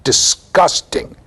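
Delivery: slow, emphatic mock-British reproof; disapproving Briton, stretching out each "disgusting"; British accent. British host reproving his American guest, British accent. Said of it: "in his British accent".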